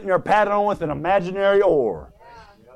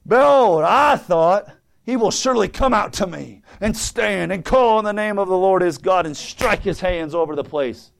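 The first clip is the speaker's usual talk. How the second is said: indignant Naaman. Acted. Preacher repeats Naaman's complaint about the prophet, indignant. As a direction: act affronted, hitting the first words hard. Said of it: "But Naaman was wroth".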